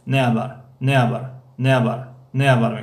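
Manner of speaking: quick run-together «نه خبر» with the h dropped; fast casual «نه خبر», h swallowed. Shown as a demonstration. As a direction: say «نه خبر» fast so it blurs to ne abar.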